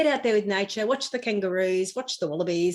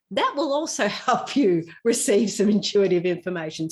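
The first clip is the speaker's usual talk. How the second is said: laughing; 4 dB louder than usual. Real, not acted. Joking about the toilet.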